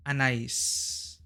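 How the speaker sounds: Anais with the stress on the last syllable, ah-nah-EES; a soft French Anais, ah-nah-EES; French pronunciation. Shown as a demonstration. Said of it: "In French, it's pronounced".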